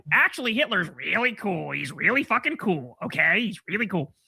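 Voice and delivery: mock edgy guy. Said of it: "the edgy young guy saying".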